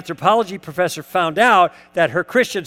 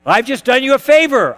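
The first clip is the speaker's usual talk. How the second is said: laughing; 6 semitones higher, 7 dB louder than usual. Real, not acted. Laughs at his own retort.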